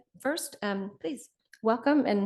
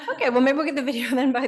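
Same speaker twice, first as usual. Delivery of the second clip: laughing; 3 semitones higher, 9 dB louder, faster than usual. Real, not acted. Laughing through video mishap.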